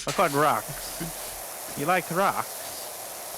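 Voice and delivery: put-on slow, drawn-out old yokel offering rocks; a lightly voiced slow old man; gruff old neighbour. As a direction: play a slow old local with a yard of rocks. Improvised scene as rock-owner.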